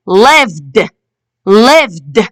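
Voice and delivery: "lived" ending in a released d; teacher's model "lived", final d set apart; final d sound. Shown as a demonstration. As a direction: say "lived" carefully with ed as an audible d. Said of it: "We can hear the d sound".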